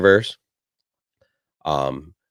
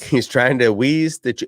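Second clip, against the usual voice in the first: put-on old prospector; 5 semitones higher than usual. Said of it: "You kinda sound like an old prospector".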